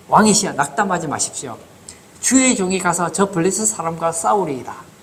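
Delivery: put-on mildly bold young challenger's pledge to a king; understated self-assured declaration; cocky-seeming boldness. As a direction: lightly act out an overconfident volunteer. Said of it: "얼마나 교만해 보입니까?".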